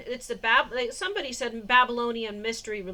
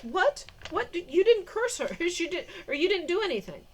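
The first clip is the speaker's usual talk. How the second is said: mad; 6 semitones higher than usual. Retold or imitated. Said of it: "So she was mad".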